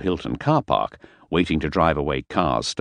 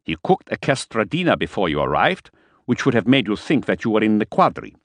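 higher, insistent fussy host; fussy Fisher; 5 semitones higher than usual. Acted. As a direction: praise the cook, getting worked up. Fisher voiced in a story.

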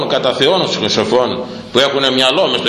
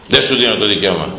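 normal talking voice

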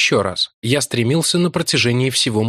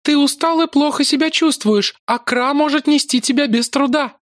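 much higher, soothing voice; motherly maiden. A narrator's reading. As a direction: reassure a stubborn child. Lakla soothes Larry.

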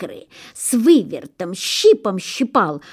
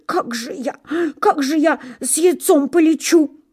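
tearful goose; 8 semitones higher than usual. A narrator's reading. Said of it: "расплакалась".

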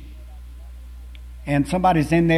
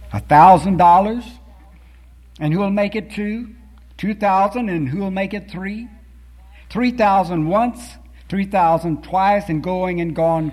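higher, eager auction calling; auctioneer crying bids; 3 semitones higher than usual. Acted. Auctioneer driving the bidding up, eager and lively. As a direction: build the bids up with rising excitement. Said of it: "cried he".

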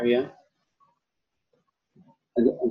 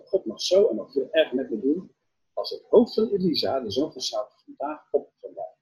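angry oath; 6 semitones higher than usual. Retold or imitated. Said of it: "hij is zo ontzettend boos".

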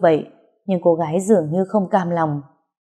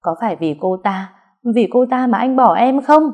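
wailing; 4 semitones higher, 3 dB louder than usual. Acted. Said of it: "Cô gái càng ngày càng gào khóc".

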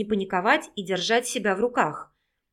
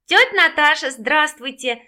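loud, excited greeting, higher; exclaiming; 6 semitones higher, 7 dB louder than usual. A narrator's reading. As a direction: call out happily to your aunt. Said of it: "воскликнул Егор".

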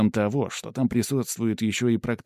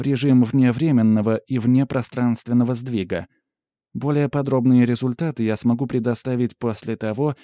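lightly voiced assistant, slightly raised and louder; assistant giving a report; 3 semitones higher, 5 dB louder than usual. Pandora reporting scan results to the hero, lightly voiced assistant. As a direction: report findings with an analyst's formal precision.

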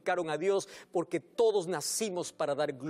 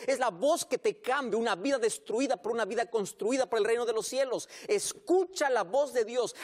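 preaching at full force; 2 semitones higher than usual. Real, not acted. Pastor urging the congregation to hear Jesus, fervent preaching.

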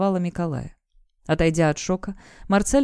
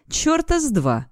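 sudden, higher, angry bark; a father's furious bark, pitched up; barked refusal; 8 semitones higher, slower than usual. A narrator's reading. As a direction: snap it out like an outraged father. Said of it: "рявкает он".

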